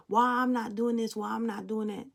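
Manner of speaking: a hint of a sulky whine; mock pouting whine. Reader mimics the sulking querent, half-hearted whine. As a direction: lightly mimic a pouting complaint. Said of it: "She's pouting".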